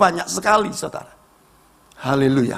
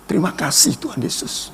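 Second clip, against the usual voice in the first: low, softened thanks to God; meek retold prayer; 8 semitones lower, 5 dB quieter than usual. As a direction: submit humbly, voice dropped and soft. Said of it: "Saya tidak pernah balas, saya katakan".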